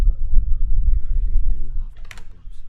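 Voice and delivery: slow, hushed amazement; awed voice. A narrator's reading. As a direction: stretch it out in awe. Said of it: "he said in an awed voice".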